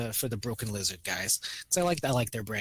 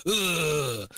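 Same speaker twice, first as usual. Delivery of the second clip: mock warm-up grunt; 3 semitones higher than usual. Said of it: "to get into his French accent".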